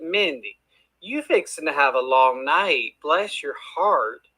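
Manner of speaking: put-on slow, drawn-out Southern accent; folksy Southern accent, stretching bless your heart; Southern drawl. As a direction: lay on a Kentucky drawl, easy and slow. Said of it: "does that sound like something you heard growing up".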